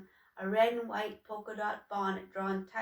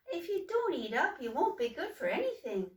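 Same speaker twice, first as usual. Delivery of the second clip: higher, a touch of coaxing; gentle pleading; 6 semitones higher than usual. Acted. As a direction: urge him kindly. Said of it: "pleaded Troika".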